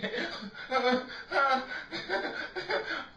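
high, helpless peals of laughter; long laughing fit. Real, not acted. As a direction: keep laughing, high and uncontrolled. Cracking up.

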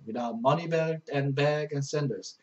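each English word read slowly and clearly; slow verse reading. Shown as a demonstration. Teacher reading a verse to Korean students, slow and clear.

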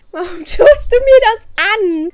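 loud, high, drawn-out complaint; mock-despairing cry, loud and high; exasperated wail. Complains to the Sim baby.

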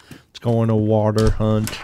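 "water" with a deliberate final R; R's pronounced. Shown as a demonstration. Bostonian trying to say R's, "water" with a clear R. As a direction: sound out the R in "water". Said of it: "I'm trying to say my R's".

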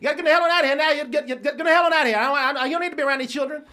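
loud, high, furious father scolding his son; angry father yelling. Retold or imitated. Father chewing out his son about a guest, angry yell. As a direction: bark it like an enraged dad.

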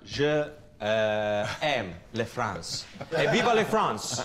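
laughing. Real, not acted. Laughing mock French praise.

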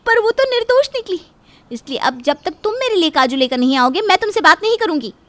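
wife giving her husband an ultimatum, loud and angry. Acted. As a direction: lay down the terms angrily.

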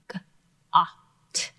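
G-A-T spelled out letter by letter; letter-by-letter spelling. Shown as a demonstration. Teacher spelling the word for learners. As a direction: spell G-A-T one letter at a time. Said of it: "This word".

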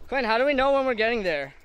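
loud, high call to someone far ahead; yelling across the room. Real, not acted. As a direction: shout it up the trail. Calling ahead on the trail.

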